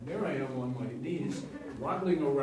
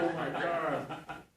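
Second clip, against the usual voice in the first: slow, loud, high, ashamed declaration; grand theatrical scolding; 8 semitones higher, 15 dB louder, slower than usual. Retold or imitated. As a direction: scold the crowd like a grand tragedian.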